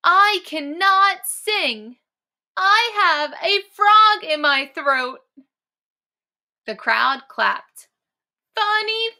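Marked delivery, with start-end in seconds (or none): 0.0-5.2 high, loud, slow croaking frog. Acted. Frog croaking to the crowd with a sore throat. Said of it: "Frog croaked as loud as he could". 8.5-9.1 excited crowd shout. Acted.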